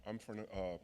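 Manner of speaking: nervous halting stammer; stumbling over words with nerves; stage fright. Real, not acted. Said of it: "I'm a little nervous".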